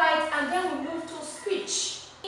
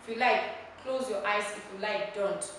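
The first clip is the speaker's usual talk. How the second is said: lower, easy take-it-or-leave-it suggestion; low-key demo of a non-command; optional request; 3 semitones lower than usual. Shown as a demonstration. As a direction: offer it as a mere option, no force. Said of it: "it is not a request".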